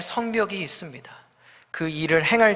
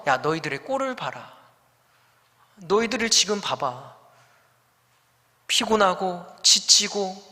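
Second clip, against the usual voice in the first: mocking scorn. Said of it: "조롱하고 비난하는 것이죠".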